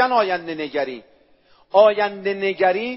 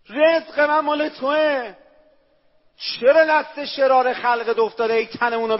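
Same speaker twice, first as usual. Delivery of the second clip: fervent prayer; 4 semitones higher than usual. Acted. Fervent prayer, higher and louder.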